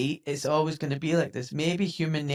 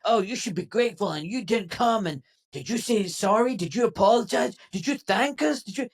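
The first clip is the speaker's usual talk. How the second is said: scolding imitation, pitched up; mock dressing-down; 4 semitones higher than usual. Host imitating Vance and Trump dressing down Zelensky, mock scolding. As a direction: fire off indignant questions as a mock telling-off. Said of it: "He was like this public dressing down".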